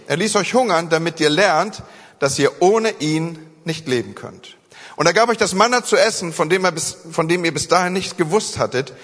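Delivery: solemn, weighty Bible reading; scripture reading. Acted. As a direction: read the law to the church with gravity. Reads Bible passage to standing congregation.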